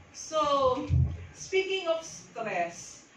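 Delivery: slow and high, stretched; drawn-out opener. Shown as a demonstration. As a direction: hook the listeners slowly.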